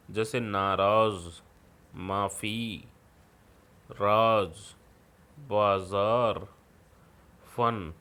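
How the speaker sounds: नाराज़ with a clear z, माफ़ी with f, slow and stressed; teacher stressing the nukta sounds for children; nukta sounds demo. Shown as a demonstration. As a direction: slowly voice the dotted sounds in नाराज़, माफ़ी, राज, बाजार. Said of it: "नुक्ता लगने से इन वर्णों का उच्चारण बदल जाता है".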